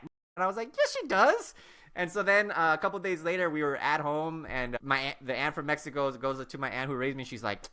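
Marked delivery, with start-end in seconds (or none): 0.8-1.5 high, emphatic comeback; re-enacted indignant retort; insistent contradiction. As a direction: contradict her flatly at a high, louder pitch. Contradicting his aunt.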